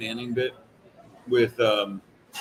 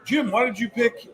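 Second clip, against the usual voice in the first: host voice; 9 semitones higher than usual. Retold or imitated. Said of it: "they're like".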